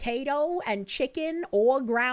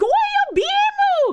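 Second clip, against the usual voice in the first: happy, very high, fake Japanese accent, called out; 9 dB louder than usual. Speaker describing what comes to mind for Goy Beam, Sailor Moon-style fake Japanese accent. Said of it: "in like a really happy Japanese fake accent".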